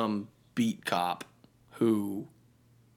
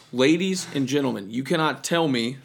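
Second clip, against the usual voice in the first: courtroom lawyer. Pretend. Mock courtroom argument.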